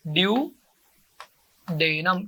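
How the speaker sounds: ड्यूडेनम stretched very slowly, syllable by syllable; slow drill. Shown as a demonstration. Teacher drilling the class on the term, very slowly. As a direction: draw ड्यूडेनम out for the kids to copy. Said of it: "क्या बोलते हैं?".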